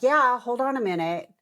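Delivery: mock the nurse putting her off; brushing off. Nurse brushing off the request for the sweater, offhand. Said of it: "she was like".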